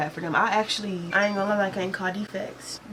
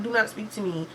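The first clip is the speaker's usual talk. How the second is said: quiet cold retort; 5 dB quieter than usual. Retold or imitated. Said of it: "I literally was like".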